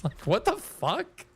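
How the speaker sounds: high, squeaky giggle breaking through the words; can't stop laughing at it; laughing 'what the' that shoots way up; laughing in disbelief. Real, not acted. Laughing at a strange whisper reply.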